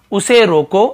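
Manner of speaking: "उसे रोको" said firmly, then a short stop; pause after रोको. Shown as a demonstration. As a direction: hold a brief comma break after रोको. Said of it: "थोड़ा सा रुकना पड़ेगा हमें". (रोको के बाद थोड़ा रुककर)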